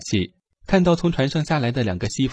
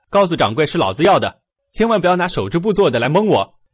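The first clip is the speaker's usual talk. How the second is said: hearty; 4 semitones higher, 4 dB louder than usual. Acted. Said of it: "热情地说道".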